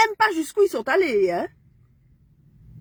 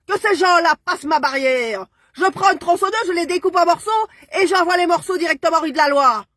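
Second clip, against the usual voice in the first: raised and higher, spitting out threats; furious; 4 semitones higher than usual. Real, not acted. Woman threatening the bailiffs in a raging outburst. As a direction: rage at those who cross her gate.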